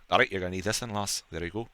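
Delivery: a light, lightly voiced Scottish accent; a hint of a Scottish ranger handing over a dagger. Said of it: "I don't know why I went Scottish there".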